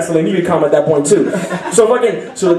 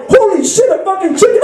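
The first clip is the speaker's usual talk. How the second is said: mock girls shrieking; 11 semitones higher than usual. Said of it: "Bunch of girls are like".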